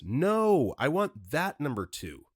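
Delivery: a touch of retold outrage; angry customer. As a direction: imitate an irate customer insisting. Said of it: "Angrily, as though I had done something wrong".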